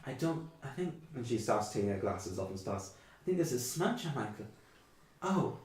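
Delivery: put-on high, kindly old mother's voice; a hint of a chatty elderly mother; old woman. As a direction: fuss over the guests like a doting granny.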